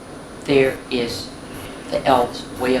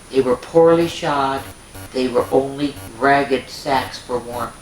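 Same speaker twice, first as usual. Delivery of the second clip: bright, lilting storybook narration; reading to children; 2 semitones higher than usual. A narrator's reading. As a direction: read it like a bedtime story for little ones.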